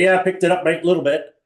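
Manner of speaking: lightly imitated Australian accent; casual mock Aussie reply. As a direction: put on a touch of Australian. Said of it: "he picked up an accent".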